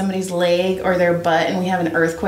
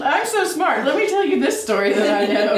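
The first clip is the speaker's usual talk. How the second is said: high smug brag, lightly mocking; lightly mock a know-it-all; mocking her friend for retelling it on the podcast, smug brag; 4 semitones higher than usual. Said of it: "you just told it on the podcast".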